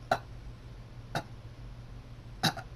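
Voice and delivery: short, halting "ah" gasps. A narrator's reading. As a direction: catch on each "ah", pausing between. Character in sudden strange trouble.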